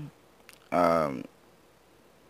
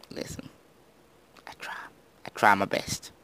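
meek whisper; 4 dB quieter than usual. Pretend. Answering himself meekly.

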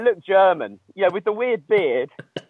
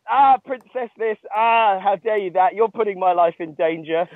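mock princess tantrum; 3 semitones higher than usual. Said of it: "it was almost like I was playing a role".

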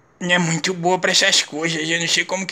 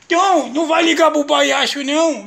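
put-on coaxing baby talk; 6 semitones higher, 3 dB louder than usual. Dad coaxing baby, clown costume.

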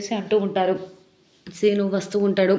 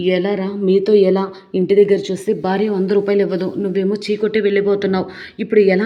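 loud lament; 7 dB louder than usual. Retold or imitated. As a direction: drag out the grievance loudly. Father laments, refused money.

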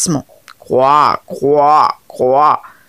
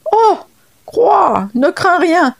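reassuring frog; 10 semitones higher, slower than usual. Acted. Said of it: "tranquillisa la grenouille".

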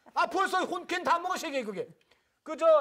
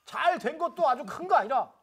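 formal speech. Acted. Mock solemn speech as elder.

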